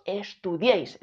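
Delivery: "estudiéis" as estu-DIÉIS; correctly stressed "estudiéis", accent on the final syllable; stress on last syllable. Shown as a demonstration. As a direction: land the weight on "diéis" in "estudiéis". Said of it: "El golpe de voz está aquí".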